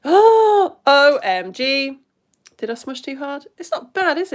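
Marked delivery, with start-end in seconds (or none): 0.1-2.0 amazed gasp. Real, not acted. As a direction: gasp in wonder at the reveal. Amazed reveal of paint result.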